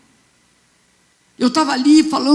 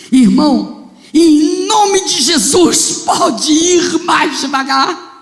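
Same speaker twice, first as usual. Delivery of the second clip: retold pleading shout; 3 semitones higher, 4 dB louder than usual. Pastor begs driver to slow down.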